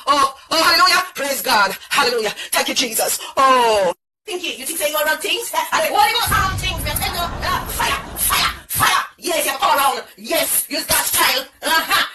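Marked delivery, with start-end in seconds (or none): 0.1-3.9 hallelujah shout. Acted. Shouting praise after salvation. 6.1-9.0 fire call. Acted. Preacher calling down fire.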